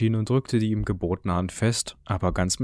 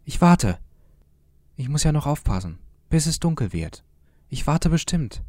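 calling after; 7 semitones higher than usual. A narrator's reading. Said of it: "rief Jürgen".

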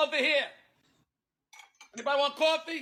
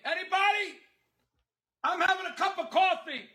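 calling out. Acted. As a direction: call out for anyone to hear. Calling out offering coffee.

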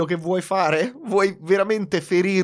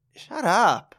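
curt shut up; 6 semitones higher than usual. Shown as a demonstration. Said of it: "devi dire più shut up".

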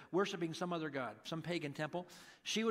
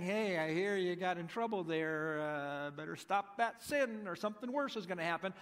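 mock-stern warning with a smile; smiling, teasing. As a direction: tease him gently, like an inside joke. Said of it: "I think Jesus kind of smiling".

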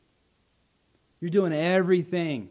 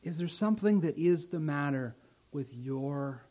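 God's gentle question; 4 dB quieter than usual. Acted. God asks each listener, soft and searching. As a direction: quietly probe the heart. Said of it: "But first he asks you".

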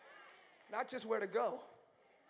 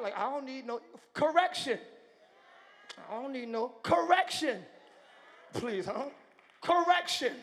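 mock prideful refusal, chin up; proud dismissive voice; 10 dB louder than usual. Mocking the prideful churchgoer who refuses correction, dismissive. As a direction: play the proud one brushing off correction. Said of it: "I feel pride".

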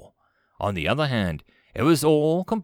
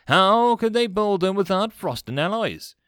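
high, loud exasperated question; snapped challenge; 9 semitones higher, 5 dB louder than usual. A narrator's reading. Commander challenges officer about guns, snapping. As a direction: demand it in irritated disbelief. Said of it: "Vakar snapped".

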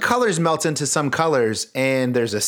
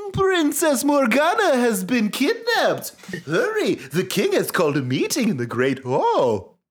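frantic cry; 10 semitones higher than usual. Acted. Friend Tortinu bursting in to warn you, frantic cry. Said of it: "bursts in and cries".

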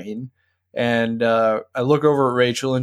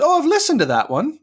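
lightly voiced British actor; 14 semitones higher, faster than usual. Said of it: "he goes".

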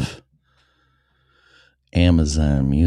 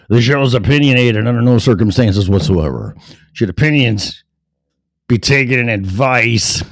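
higher-pitched disclaimer patter; announcer patter; 6 semitones higher, 4 dB louder than usual. Real, not acted. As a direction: recite the disclaimer in a raised announcer voice. Recites disclaimer to find cadence.

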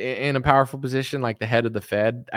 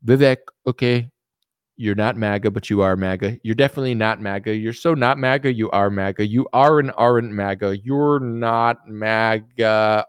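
lightly voiced politician going in circles; a hint of Trump, stretching "You're not maga"; mock deliberation, ending on a lower verdict; Trump impression; 4 semitones lower than usual. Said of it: "imagine Trump gets in".

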